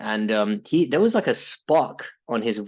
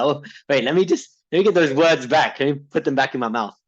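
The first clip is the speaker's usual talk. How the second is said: mock backpedal; 3 semitones higher, 4 dB louder than usual. Mock backtracking on his question.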